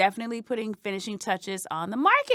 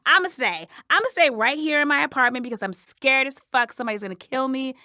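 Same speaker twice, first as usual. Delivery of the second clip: defiant; 3 dB louder, faster than usual. Retold or imitated. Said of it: "I just wanna say".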